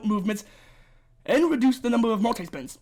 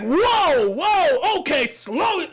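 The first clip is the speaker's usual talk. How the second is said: raised, louder mock alarm; imitated startled player; 5 semitones higher, 4 dB louder, much slower than usual. Imitating a player hit by tricky sections, mock alarm. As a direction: act out a player overwhelmed by the notes. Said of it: "gonna make you be like".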